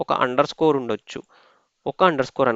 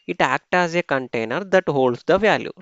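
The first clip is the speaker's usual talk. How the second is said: reading rule text aloud very slowly, word by word; slow dictation read; 2 semitones higher, much slower than usual. Acted. Teacher reading the slide rules slowly to students. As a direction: spell it out slowly for the class. Reads the definition.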